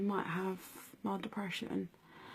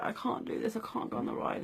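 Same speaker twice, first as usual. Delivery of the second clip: scared whisper; 3 semitones higher, 4 dB quieter than usual. Retold or imitated. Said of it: "And I was like".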